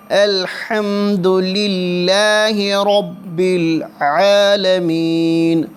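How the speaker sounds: رب with a full, heavy ر. Shown as a demonstration. Teacher showing how to read the ر in رب, heavy ر. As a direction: recite رب with a thick, rounded ر. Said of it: "را موٹا پڑھیں گے".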